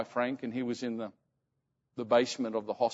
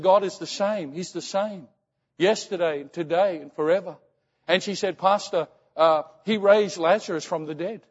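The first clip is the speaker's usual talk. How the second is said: imitated fervent mother, raised pitch; praising God; 4 semitones higher, 4 dB louder than usual. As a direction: retell her emphatic declaration of faith. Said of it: "she was praising God".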